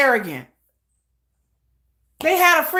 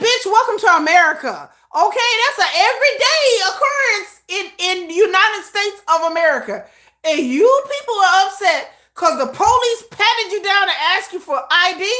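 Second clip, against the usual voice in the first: exasperated retort; 5 semitones higher than usual. Retold or imitated. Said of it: "I'm like".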